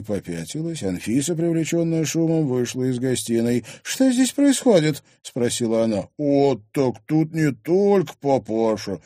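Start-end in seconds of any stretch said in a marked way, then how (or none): 3.8-5.0 high, loud, slow question; imperious demand. Acted. Wife walking in on commotion, demanding. 6.2-9.0 slow, loud cheeky drawl. Acted. Thug noticing another resident, drawling. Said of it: "протянул Микель".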